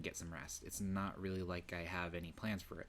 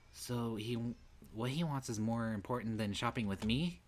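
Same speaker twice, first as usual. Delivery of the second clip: higher, louder wounded senpai; lightly voiced upperclassman feeling slighted; jealous Senpai; 4 semitones higher, 5 dB louder than usual. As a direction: sound hurt and indignant.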